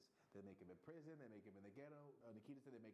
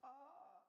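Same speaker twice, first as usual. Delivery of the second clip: imitated girl's cry. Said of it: "she's like".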